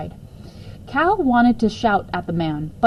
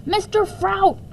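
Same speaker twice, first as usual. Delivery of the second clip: higher, lightly voiced boy; boy's voice; 12 semitones higher than usual. Boy muttering at the noisy neighbour, lightly voiced. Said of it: "Cal said to himself".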